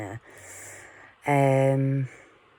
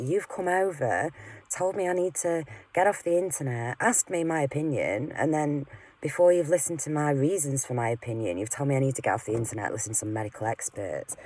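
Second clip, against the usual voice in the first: raised-pitch heated retort, rushing at the end; angry retort; 2 semitones higher than usual. Retold or imitated. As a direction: fire it back at her, speeding up as you go. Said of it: "And I was angry 'cause I thought".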